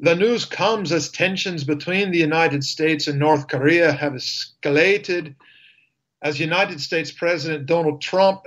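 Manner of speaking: put-on a light, unsure Scottish accent on news copy. A lightly put-on Scottish accent reading the news. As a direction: newsreader tries a Scottish accent on air. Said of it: "try this next little bit in Scottish tones".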